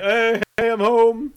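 loud, high dad's homecoming call; calling out on arrival. Acted. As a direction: announce yourself cheerily to the house. Acted dad arriving home.

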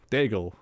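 "Dangle" back without the n, as DAG-ul; unsure pronunciation. Real, not acted. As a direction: settle on "Dangle" with a plain hard g. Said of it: "However you say her name".

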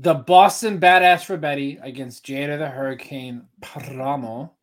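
announcer intro with rolled R on Paramo. Acted. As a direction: roll the R in Paramo like a ring announcer. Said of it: "why did you roll your R?".

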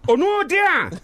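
high sung-out call; mock jingle call. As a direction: belt the name like a radio jingle. Jingle shout at Núbia.

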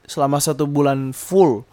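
burp slipping into the words. Real, not acted. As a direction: talk through a small burp. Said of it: "Maaf, sendawa". (bicara sambil bersendawa)

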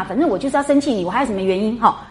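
fast, sulky imitation of a stubborn girl; petulant girl. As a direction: rattle it off like a pouting girl. Mimicking Daiyu's petulance. (快速地学林黛玉耍赖的口气)

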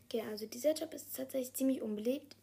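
talking with a cold; a bit stuffed up from a cold; stuffy nose. Real, not acted. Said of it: "ich bin ein bisschen erkältet".

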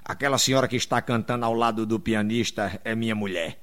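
voz grave e baixa, orgulho contido; anfitrião orgulhoso. Acted. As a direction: diga baixinho e grave, todo orgulhoso. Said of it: "aí todo orgulhoso". (todo orgulhoso, em voz grave e baixa)

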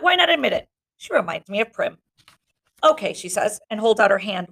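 reading a novel aloud; steady read-aloud to a class; story narration. Acted. Narration continues.

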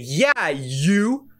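retold yell. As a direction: lightly mimic an insistent holler. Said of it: "they see Jesus yelling".

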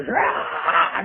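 retold battle yell; mock battle yell. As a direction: let out a raspy battle cry without full volume. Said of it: "gives a huge battle yell".

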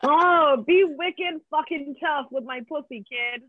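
a hint of Boston accent, slowed; mock Boston accent. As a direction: lightly play a Boston tough guy. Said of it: "a guy with a bad accent".

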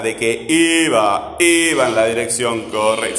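sustained stress on I in "iba"; stressed syllable drawn out. Shown as a demonstration. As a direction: hold the I of iba. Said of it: "Cuál es la siguiente sílaba tónica".

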